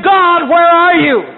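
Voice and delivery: slow, projected call to God; mock bragging shout, drawn out; acted boastful challenge. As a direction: call out the taunt like a preacher retelling it. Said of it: "to brag and to shout".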